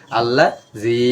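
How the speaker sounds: "আল্লাহ জি" with the last vowel held long; one-alif stretch. Shown as a demonstration. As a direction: draw out the end of "আল্লাহ জি". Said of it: "ঠিক তেমনি কি". ("আল্লাহ জি"-র শেষে এক আলিফ টান)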